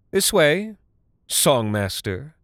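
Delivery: high called summons; calling out. Acted. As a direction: call him into the dark. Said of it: "Talarn called".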